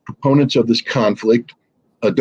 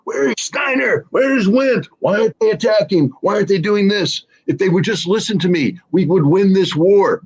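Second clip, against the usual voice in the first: Hitler ranting; 8 semitones higher than usual. Retold or imitated. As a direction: rant like a cornered dictator in the bunker. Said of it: "Hitler's sitting there, pounding the table".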